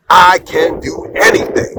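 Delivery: slow, sure-of-himself answer; confident. Retold or imitated. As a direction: say it like you already got the job. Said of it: "confidently says".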